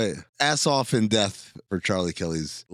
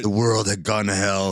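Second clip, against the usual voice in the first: low, quick movie voiceover; voiceover internal monologue; 6 semitones lower than usual. Acted. Character setting up the story, low voiceover monologue. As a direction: narrate like a film's inner monologue. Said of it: "Voiceover internal monologues position".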